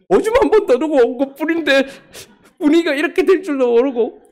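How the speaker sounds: a comic wail of innocence; sheepish inner whine. Retold or imitated. His own sheepish inner complaint.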